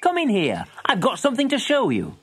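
put-on a grandmother coaxing the boy inside. A narrator's reading. Grandmother inviting Billy in to see something. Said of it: "called his grandmother".

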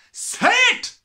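very high, very loud roar; bellowing. Acted. Headmistress bellowing at the boy. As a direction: blast it at him. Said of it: "bellowed the Trunchbull".

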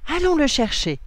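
high, loud rallying cry; rally everyone to go; exclaiming. A narrator's reading. William urges the cousins to the rock, exclaiming. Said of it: "s'exclame William".

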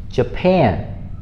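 "Japan" stressed on the second syllable, then falling; careful isolated "Japan", stress at the end; model pronunciation. Shown as a demonstration. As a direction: demonstrate "Japan" with the weight on "pan". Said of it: "learn how to say it with me".

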